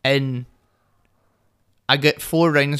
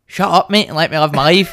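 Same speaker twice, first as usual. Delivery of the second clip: defiant retort; 2 semitones higher, 3 dB louder than usual. Retold or imitated. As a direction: tell a nagging friend to back off. Acted retort to nagging friend.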